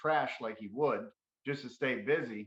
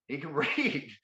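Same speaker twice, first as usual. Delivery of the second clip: laughing in disbelief; 3 semitones higher than usual. Retold or imitated. Amazed his brother can read.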